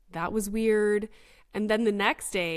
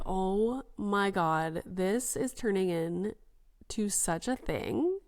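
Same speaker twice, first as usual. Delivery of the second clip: slow, drawn-out dismayed groaning words; mock-overwhelmed, dragging every word; retold exasperation; slower than usual. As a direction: stretch it out like an overwhelmed parent. Retells dismay at child's questions.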